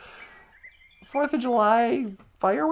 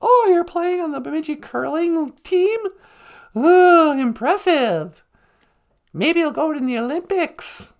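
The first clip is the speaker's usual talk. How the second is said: fake enthusiasm; 3 semitones higher, 4 dB louder than usual. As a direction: pretend to be impressed. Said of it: "about as impressive as shuffleboard".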